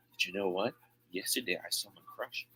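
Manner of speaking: soft, hushed secret to a friend; secret whisper. Acted. Sandra confiding her crush to Steph, softly hushed. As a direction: lean in and hush it like gossip. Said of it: "Sandra whispered the secret to her".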